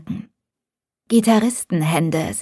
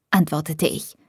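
ordinary delivery

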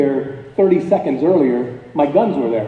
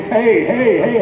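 big manly yell; 6 semitones higher, slower than usual. Retold or imitated. Hunter retelling how he yelled at the charging bear, mock manly holler. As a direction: puff up and bark it like a tough man facing a bear. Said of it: "at a big, uh, manly voice".

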